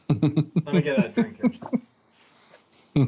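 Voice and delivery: husky, throat needs clearing; frog in throat. Real, not acted. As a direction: talk past a frog in the throat. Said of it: "I got a frog in my throat".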